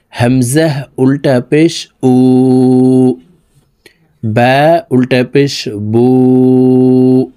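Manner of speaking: slow teacher's sing-song drill, stretching উ; measured recitation chant. Shown as a demonstration. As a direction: model it for pupils to repeat. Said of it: "আমার সঙ্গে বলার জন্য চেষ্টা করুন".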